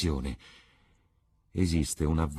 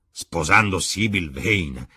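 slow, louder "Sybil" exclaimed in disbelief; astonished exclamation; 7 dB louder, slower than usual. Acted. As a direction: repeat it back, stunned and perplexed. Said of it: "esclamò Lord Henry ... perplesso e meravigliato". (Lord Henry ripete "Sposando Sybil Vane!" stupito e più forte)

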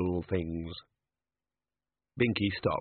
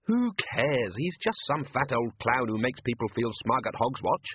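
put-on higher, scornful young woman; scornful Susan; 7 semitones higher than usual. Susan mocks the Hogfather to Death, scornful and fed up. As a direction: Susan sneering at the whole idea.

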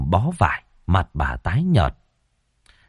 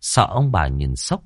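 plain reading voice

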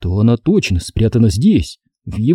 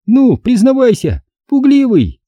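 put-on high, loud sneering girl's voice; 12 semitones higher, 3 dB louder than usual. A narrator's reading. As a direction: needle him. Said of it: "принялась язвить Стеф". (язвительная девочка)

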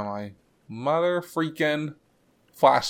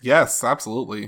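louder, bright fake pep; peppy; 7 dB louder than usual. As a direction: pump up the enthusiasm. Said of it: "You hear the pep in my voice?".

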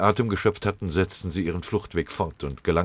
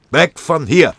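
high, loud yell; high-pitched urgent scream; panicked shout; 11 semitones higher, 11 dB louder, slower than usual. A narrator's reading. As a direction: shout it out, nerves at breaking point. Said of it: "schrie Tinnes".

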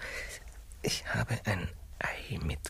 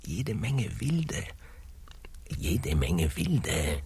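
whisper; 7 semitones higher than usual. Acted. Confession in whispers.

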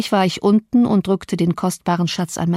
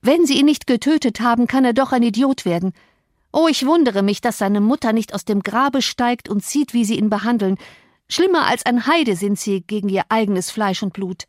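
higher, heated scolding; angry reproach; 4 semitones higher than usual. Acted. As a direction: tear into him for his cruelty. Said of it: "rief ich zornig". (zornige Vorwürfe, erhoben)

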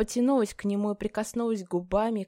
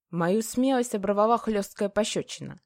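ordinary delivery

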